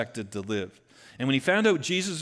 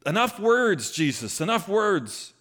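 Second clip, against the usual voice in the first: desperate plea; 7 semitones higher, 4 dB louder, slower than usual. Acted. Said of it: "It's like".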